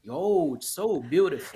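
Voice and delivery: high mock-gushing praise; gushing compliment. Learner imitating Brazilian gushing praise, high and gushy. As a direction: overdo the admiration.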